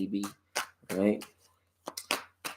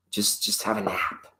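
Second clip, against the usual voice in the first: whispered, hushing a sleepy earth; soft whisper; 3 semitones lower, 12 dB quieter than usual. Acted. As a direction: lull her to sleep in a whisper. Lulling Gaia to sleep.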